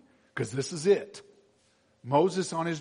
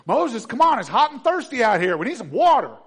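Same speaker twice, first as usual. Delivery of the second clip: griping Israelites; 8 semitones higher, 12 dB louder than usual. Retold or imitated. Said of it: "they're all griping at Moses".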